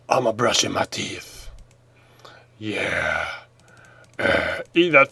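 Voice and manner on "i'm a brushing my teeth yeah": low soft goofy voice; silly character voice. Pretend. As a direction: voice the fish lazily. Voicing the fish character.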